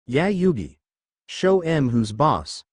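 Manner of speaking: a moderate cheering call, slow on the end; rally your friend from the sidelines; cheering yell. Acted. Joey cheering Yugi on from behind, a light yell. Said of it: "Joey yelled".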